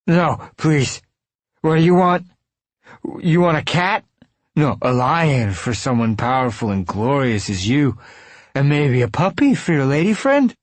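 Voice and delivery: put-on high, loud begging from a cornered drunk; desperate pleading. A narrator's reading. Mike begs and bargains for soul.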